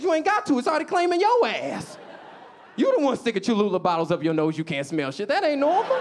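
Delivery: high, exasperated scolding; exasperated retort. Retold or imitated. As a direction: scold her, fed up. His retort to girlfriend.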